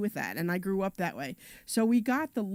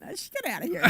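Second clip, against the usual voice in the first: laughing; 8 semitones higher, faster than usual. Real, not acted. Embarrassed after being asked again.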